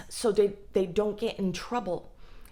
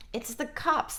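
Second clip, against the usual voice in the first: much higher, stressing cops; emphatic reveal; 8 semitones higher than usual. Shown as a demonstration. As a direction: announce it brightly higher.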